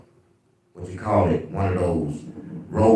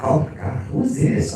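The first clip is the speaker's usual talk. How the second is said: high, airy mock woman caller; mock swooning woman; 9 semitones higher than usual. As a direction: gasp it like a smitten caller. Women calling him.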